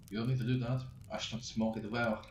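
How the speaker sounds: lightly voiced French assassin, a hint of the accent; easygoing French accent, only lightly put on; heavy French accent. Frenchman telling James about his cigarette, light French accent. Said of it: "he said, generously accented".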